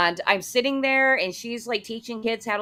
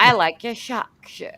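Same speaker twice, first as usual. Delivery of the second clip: mimicked Aussie accent with r-less "shark shirt"; Australian accent; 3 semitones higher, 4 dB louder than usual. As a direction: imitate an Australian repeating herself. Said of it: "that's my Australian".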